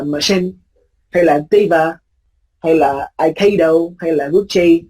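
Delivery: examples of how not to say them; wrong pronunciation. Shown as a demonstration. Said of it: "không đọc như vậy nha".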